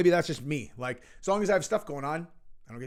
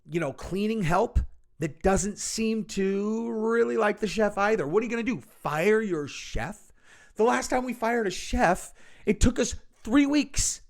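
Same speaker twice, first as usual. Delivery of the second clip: mock rich woman; 3 semitones higher than usual. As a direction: whine like a pampered socialite about staff. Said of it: "She's like".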